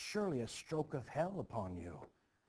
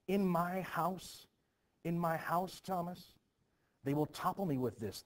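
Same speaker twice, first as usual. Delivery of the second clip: panicked outcry; 6 semitones higher, 5 dB louder than usual. Acted. Minister panics about scandal.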